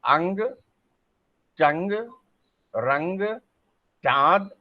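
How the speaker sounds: अंग, रंग, दंग each said alone with a clear nasal ng; nasal words demo. Shown as a demonstration. Teacher drilling nasal words while students watch. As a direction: let the nose carry each word. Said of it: "मेरे नाक पे आपकी दृष्टि हो".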